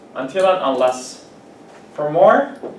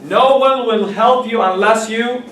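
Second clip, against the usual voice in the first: slow model sentence; 5 semitones higher, 5 dB louder than usual. Shown as a demonstration. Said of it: "teacher model sentence, slow".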